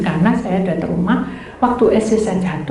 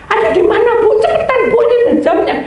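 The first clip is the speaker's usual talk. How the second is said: high, loud, pressing phone voice; impatient urging; 13 semitones higher, 5 dB louder, faster than usual. Retold or imitated. Caller hurries the passenger over the phone, impatient urging. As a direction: hurry the listener along, imitating a pressed caller.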